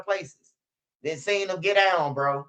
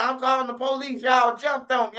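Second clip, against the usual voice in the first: retold yell; 4 semitones higher than usual. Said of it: "she said".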